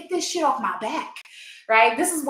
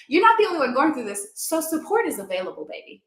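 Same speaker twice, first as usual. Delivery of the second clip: reassuring reframe; 3 semitones higher than usual. Shown as a demonstration. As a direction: reassure them instead of brushing them off. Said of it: "Let's pull it back in".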